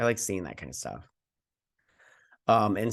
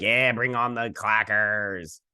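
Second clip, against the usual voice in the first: slow, drawn-out mock cheer; retold eager egging-on, drawn out; much slower than usual. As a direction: stretch it out like a relishing cheer. Own eager cheer while watching, retold.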